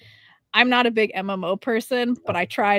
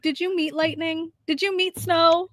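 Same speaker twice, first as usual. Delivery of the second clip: insistent questions climbing higher, last one loud; building fan outrage; 7 semitones higher, 7 dB louder than usual. Acted. Gamer defending beloved characters to the haters, incredulous and building. Pleading for underrated game, building.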